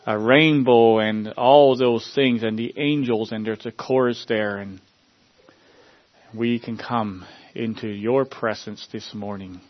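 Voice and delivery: earnest congregational prayer, addressing the Lord. Acted. Pastor praying over his congregation, earnest prayer voice. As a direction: pray aloud for the church, pleading and sincere.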